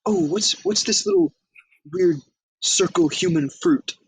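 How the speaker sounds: put-on high, slow, wondering old lady voice; squeaky, drawn-out granny voice; old lady impression. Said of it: "doing an impression of her".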